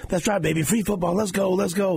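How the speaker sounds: high, fired-up Mahomes imitation; imitating Mahomes fired up after the kick. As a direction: hype it up like a pumped quarterback. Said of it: "He's all fired up".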